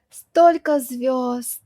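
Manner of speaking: slow, marvelling Столько звёзд; hushed wonder at the stars; awed. Shown as a demonstration. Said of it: "looking at the night sky".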